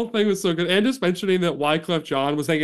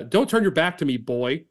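raised, mock-angry call after him; acted shout; 2 semitones higher, 3 dB louder than usual. Host reading a story, voicing Chris yelling at the Star, mock shout. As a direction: call him back like a man spoiling for a fight. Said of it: "Christopherson shouted".

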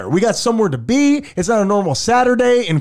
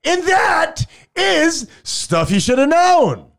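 slow, high hammed-up sobbing; mock weeping; 8 semitones higher, much slower than usual. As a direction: blubber it out, fake crying. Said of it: "just weeping".

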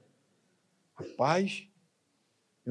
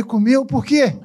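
retold shock; 6 semitones higher, 4 dB louder, slower than usual.

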